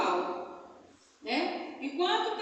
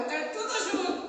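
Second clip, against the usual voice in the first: imitating a child's high, tearful plea; mock crying in a high little voice; 6 semitones higher than usual. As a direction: plead like an upset small child, pitched up. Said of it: "desse jeito. Tudo junto, chorando".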